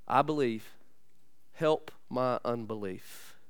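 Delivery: a trembling father's quiet admission; hushed confession. Acted.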